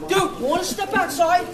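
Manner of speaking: tough-guy challenge; false bravado. Real, not acted. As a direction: puff up and dare him. Caller challenging a man to fight.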